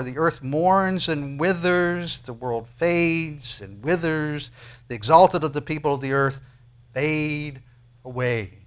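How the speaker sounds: very slow, lingering on mourns and fades; slow rhyming reading. Shown as a demonstration. Preacher reading the verse slowly to show its rhyme. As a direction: read slowly so the rhyme rings out. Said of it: "the rhyming of the words".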